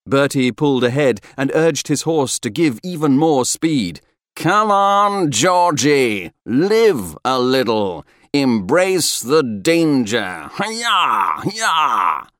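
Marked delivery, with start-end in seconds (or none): 4.4-12.3 high, loud, whooping goading; exuberant calling out. A narrator's reading. Rider urging his friend to embrace danger, whooping. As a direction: holler back over galloping hooves. Bertie gallops ahead, calling back.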